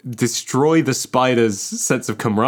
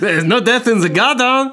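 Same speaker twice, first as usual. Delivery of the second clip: robot spider lure; 11 semitones higher, 4 dB louder than usual. Pretend.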